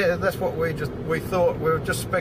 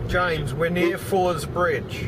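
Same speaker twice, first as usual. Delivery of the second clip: to someone hard of hearing; slower than usual. Real, not acted. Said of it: "Say again".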